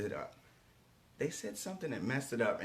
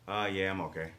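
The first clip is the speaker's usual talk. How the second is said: bored, low-energy reply; 3 semitones lower than usual. Retold or imitated. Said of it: "reenacting that / almost fell asleep".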